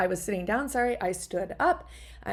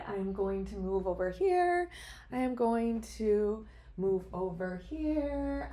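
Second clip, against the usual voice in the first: voice moving away. Real, not acted. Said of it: "You might hear my voice go away".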